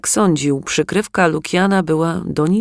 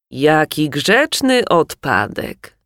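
disguised deep voice; slower than usual. Acted. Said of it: "rzekł zmienionym głosem".

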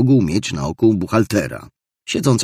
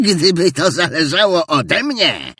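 a hint of rising outrage; growing indignation; 10 semitones higher, 4 dB louder than usual. Scrooge, growing outraged at his nephew's cheer. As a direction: let the anger start to climb. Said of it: "dodał z wzrastającym oburzeniem".

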